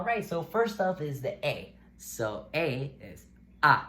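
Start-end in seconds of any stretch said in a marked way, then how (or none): 2.0-3.8 "A" dito aberto e claro; "A" com a boca bem aberta; Spanish A. Shown as a demonstration. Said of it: "A, like in amen".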